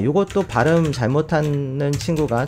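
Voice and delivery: ordinary talk, nothing marked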